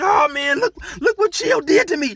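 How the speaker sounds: imitating a bleeding cousin crying out; cousin screaming. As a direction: wail it hurt and angry. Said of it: "My cousin is screaming".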